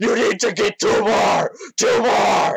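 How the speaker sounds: very high, loud, drawn-out panicked scream. Game master voicing a man jolted awake, grabbing a player: panicked screaming. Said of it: "he leaps up and grabs you and says".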